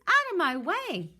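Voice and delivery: high loud shove-off shout; bossy goose shout. Acted. Goose shoving the others aside, loud bossy shout. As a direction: push past them loudly.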